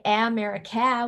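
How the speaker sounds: "America" with short a as in cat at both ends; wrong short A. Shown as a demonstration. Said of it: "we don't say".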